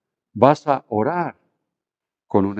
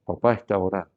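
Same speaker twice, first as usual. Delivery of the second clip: hushing mother; 6 semitones lower, 7 dB quieter than usual. Retold or imitated. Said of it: "Y era".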